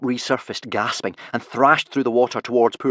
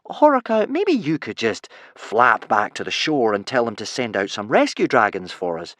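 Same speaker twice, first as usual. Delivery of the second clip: extra casual; 3 dB louder than usual. Acted. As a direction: try to sound unbothered. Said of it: "trying to sound extra casual".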